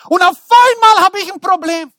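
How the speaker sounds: loud, high outburst of outrage; indignant shout. Retold or imitated. Preacher acting his younger self, suddenly outraged. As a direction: blurt the grievance out loud.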